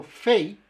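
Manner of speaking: "fei" drawn out, weight on E, falling into a glide; stress on E. Shown as a demonstration. Linguist explaining spelling to learners, stress on E. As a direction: lean on the E of "fei". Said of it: "el acento en la E".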